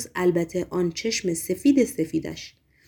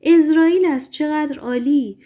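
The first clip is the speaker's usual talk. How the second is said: delighted shout; 6 semitones higher, 4 dB louder than usual. A narrator's reading. Margarita hails the expected visitor, a delighted shout. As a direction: call it out high, then stretch the ending. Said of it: "فریاد زد".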